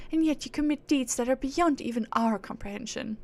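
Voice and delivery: haughty aristocratic British; British accent. Acted. Proud being scorning mortals for chasing reward, haughty British accent. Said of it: "give her a British accent".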